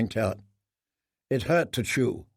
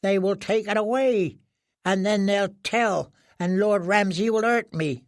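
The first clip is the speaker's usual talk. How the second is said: high, fearful broken captive voice; a starved prisoner trembling at his fate; frightened prisoner; 7 semitones higher than usual. Acted. Starved prisoner fearing his lord, high frightened voice. Reek frightened in dark cell.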